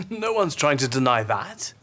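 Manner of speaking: laughing, breathy whispered aside; amused whisper. Acted. Amused aside during argument.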